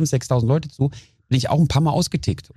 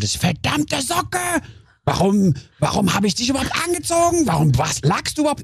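mock rage at a sock; 8 semitones higher than usual. Ranting at his own wet sock, hammed-up anger. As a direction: scold the sock like it did it on purpose.

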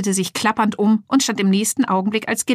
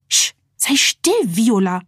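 hushed scolding; 2 semitones higher, slower than usual. A narrator's reading. Receptionist hushes her joking phone, a hissed scolding. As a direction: scold the phone under your breath. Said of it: "schimpfte die Empfangsdame".

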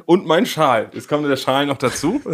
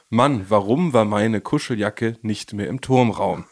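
slow, solemn reading of a whiny message, voice dropped lower; mock poetic lament; 4 semitones lower than usual. Reading Benni's sulky message aloud as a mock poet. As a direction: recite the text message like a wounded poet. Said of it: "in dieser Reihenfolge einmal geschrieben worden".

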